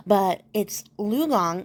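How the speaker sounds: Lu Gong said slowly and carefully, syllable by syllable; careful name pronunciation. Shown as a demonstration. Telling listeners the pharmacist's name, carefully pronounced Lu Gong. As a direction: sound out Lu Gong with care. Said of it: "am gonna do my best with these pronunciations".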